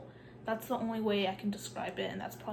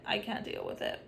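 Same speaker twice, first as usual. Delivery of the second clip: breathy whispered repeat. Real, not acted. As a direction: drop it to a weary whisper.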